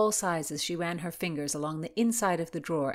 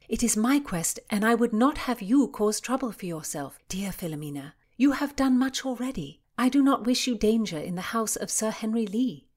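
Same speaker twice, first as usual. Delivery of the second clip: lightly voiced Constance, higher and pleading her case; earnest Constance, insistent; 4 semitones higher, 4 dB louder than usual. Constance refuses to let her friend risk trouble, insistent. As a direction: voice an earnest friend, pitched up a little.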